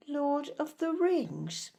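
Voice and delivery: slow, mildly disapproving query; disapproving question. Acted. Good mother querying another mother's choice of costume, disapproving. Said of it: "stopped and stared disapprovingly".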